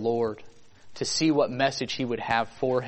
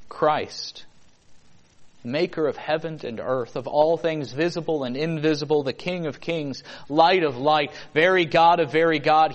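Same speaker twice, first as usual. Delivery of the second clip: building proclamation. Real, not acted. Preacher builds a litany of titles.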